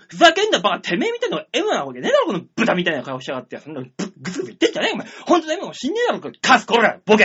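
fast mock-furious rant; retold angry tirade. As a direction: reel off insults in a rapid retold outburst. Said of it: "頭きてね".

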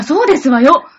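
loud, posh-lady ojousama tone; haughty rich girl japanese. Acted. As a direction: declare it like a grand lady. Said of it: "そうですわよといえば祝女じゃないか". (お嬢様口調で高らかに)

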